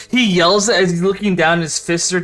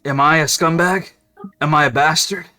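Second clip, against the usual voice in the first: sincere confession; 4 semitones lower than usual. Acted. GM voices Jerome sincere speech.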